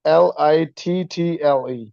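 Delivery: L I T T L E spelled out slowly, letter by letter; slow spelling. Shown as a demonstration. Teacher slowly spells out L I T T L E. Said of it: "they're gonna say it like".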